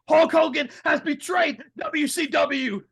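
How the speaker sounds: high, slow, dramatic commentator call; announcer call. Retold or imitated. Tony Schiavone announcing the betrayal, dramatic slow call. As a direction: proclaim it like shocked play-by-play. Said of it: "all of a sudden you hear".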